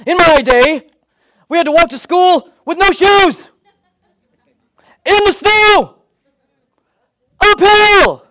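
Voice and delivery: put-on high, slow old-timer's grumble. Preacher mocking parents with an old-timer voice. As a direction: play the crusty grandparent. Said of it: "leads us to say things like".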